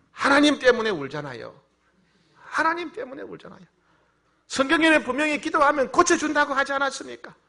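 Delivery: high, loud cry of complaint; anguished protest. Retold or imitated. Grieving pastor answers God back, high loud protest.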